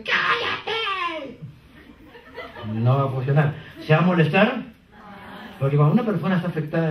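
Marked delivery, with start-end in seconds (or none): 0.0-1.4 sharp cut-off. Acted. Girlfriend shuts boyfriend up.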